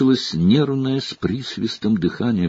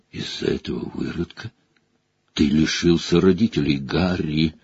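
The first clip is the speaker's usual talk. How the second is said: rasped; 4 semitones lower, 3 dB quieter than usual. Acted. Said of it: "прохрипел Блэк".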